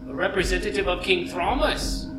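flustered, eager guard; excited guard voice. Acted. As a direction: gush over the important guest. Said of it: "he says".

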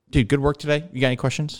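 easygoing, lightly upbeat sign-off; gentle, casual debriefer. Retold or imitated. Instructor wraps up pilot's debrief, gentle and casual. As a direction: imitate an instructor wrapping up kindly. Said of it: "real gentle, real casual".

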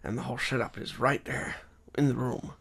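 lightly voiced noir narrator, hushed in places; half whispered hard-boiled monologue; noir detective voice. Co-host reads the long monologue, mild noir voice. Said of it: "do our best noir detective".

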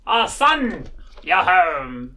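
a lightly voiced old wizard father; hint of an old wizard. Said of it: "so now I gotta come up with my wizard voice".

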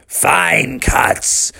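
lightly voiced pirate, drawn out; pirate dad. Pirate dad admires son's chopping, slow pirate voice. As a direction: give slow approval as a storybook pirate. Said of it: "the pirate dad said".

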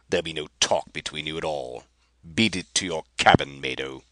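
snarling orders. Acted. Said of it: "Rapaju snarled".

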